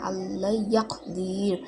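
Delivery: "ইয়াকদির" closed on র with no "a" after it; jazm on final letter. Shown as a demonstration. Teacher showing where the zabar drops, final র closed with jazm. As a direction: end "ইয়াকদির" on a still, vowelless র. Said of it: "জবরটা বাদ দিয়ে এখানে জজম দিয়ে".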